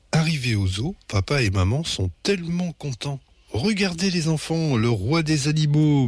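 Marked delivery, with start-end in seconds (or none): 3.5-6.1 bellowing dad. A narrator's reading. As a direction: hail the children like an excited father. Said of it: "mugit papa". (papa qui mugit, mais sans forcer)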